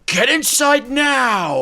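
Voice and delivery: high, loud, slow shouted warning; urgent warning. Retold or imitated. Streamer quoting the little guy's warning, high and loud. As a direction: bark it out like a frightened little villager. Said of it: "the little guy was like".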